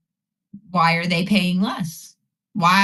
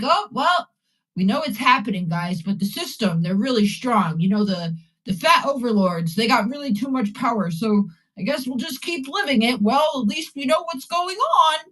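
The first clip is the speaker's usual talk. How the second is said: droning aggrieved whine; whiny resigned dweeb impression; dweeby complainer voice. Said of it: "dweeby, uh, you know, complainer voice".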